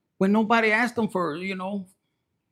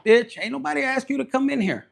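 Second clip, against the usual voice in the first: higher, sharp sassy comeback; sassy retort; 6 semitones higher than usual. Real, not acted. Reader telling off meddling commenters, sassy higher comeback. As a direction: put the meddler in their place.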